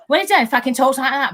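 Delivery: half-hearted put-on man's voice; badly attempted imitation of a bloke. Woman failing to imitate Ultra talking, man's voice. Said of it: "but I can't do a man's voice".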